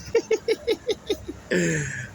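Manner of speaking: high, drawn-out laugh; amused laugh at his own sentence; real laugh. Real, not acted. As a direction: laugh at the irony. Laughs at ninety-nine years.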